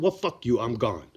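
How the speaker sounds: retold quitting. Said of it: "it gets me a little worked up".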